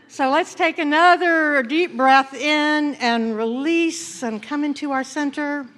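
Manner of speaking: gentle prayerful guiding; guided meditation. Acted. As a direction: ease the congregation into stillness.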